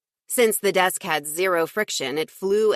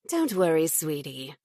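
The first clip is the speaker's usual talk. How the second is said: simpering; 4 dB quieter than usual. Acted. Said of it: "she simpered".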